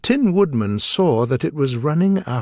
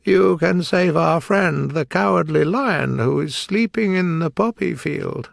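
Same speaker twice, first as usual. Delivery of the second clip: eager Scarecrow, a bit higher; quickly; 6 semitones higher than usual. A narrator's reading. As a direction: jump in quickly to help. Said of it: "said quickly".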